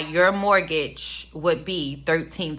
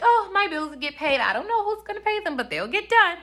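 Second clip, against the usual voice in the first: mocking airhead voice; 11 semitones higher than usual.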